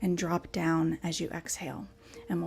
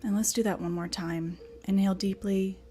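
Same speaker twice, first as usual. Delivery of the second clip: measured meditation guidance with long pauses; guided meditation. Acted. Teacher settling the class into a comfortable position, guided meditation. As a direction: guide them into stillness, breath by breath.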